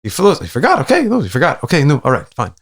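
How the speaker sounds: high, quick relieved mock; relieved elders. Community elders excusing the boy, high relieved agreeing. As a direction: eagerly let him off the hook. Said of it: "they're like".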